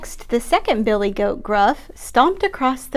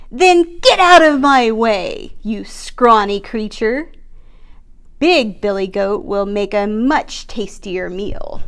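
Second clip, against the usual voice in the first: troll voice; 5 dB louder than usual. Acted. Troll dismisses the goat.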